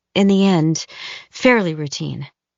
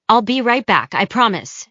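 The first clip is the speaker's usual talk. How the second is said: raised voice calling back; 5 semitones higher than usual. Acted. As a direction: call it back over your shoulder. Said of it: "she calls out".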